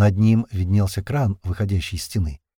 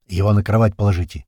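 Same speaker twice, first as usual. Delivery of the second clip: louder call down from above; shouted from above; 5 dB louder than usual. Acted. Man shouting down the hatch to soldiers below, loud call. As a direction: call it down the hatch so they hear. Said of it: "крикнул им сверху Пухлый".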